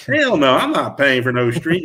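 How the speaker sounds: lightly imitated Southern accent. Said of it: "in his Southern accent".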